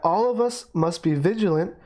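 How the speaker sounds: "all of us must be vigilant" lifted out of the sentence; stress on all of us must be vigilant. Shown as a demonstration. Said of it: "you add this emphasis".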